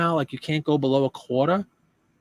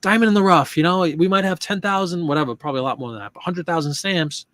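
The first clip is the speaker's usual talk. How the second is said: fired-up excitement; 3 semitones higher, 4 dB louder than usual. Retold or imitated. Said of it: "I'm like".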